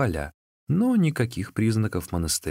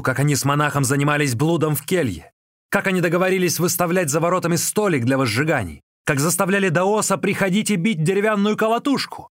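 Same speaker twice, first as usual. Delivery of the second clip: loud, higher raging threats; furious shout; 6 semitones higher, 4 dB louder than usual. A narrator's reading. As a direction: roar at the servant. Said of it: "закричал".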